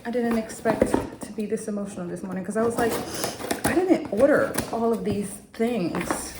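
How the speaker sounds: high, teary voice; choked up with emotion; crying. Real, not acted. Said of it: "I burst out crying".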